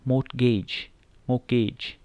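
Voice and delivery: मॉर्गेज said mor-gej with no t; silent t. Shown as a demonstration. Teacher models मॉर्गेज with the t left out. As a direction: say मॉर्गेज smoothly, skipping the t. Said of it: "सही pronunciation है वो क्या है".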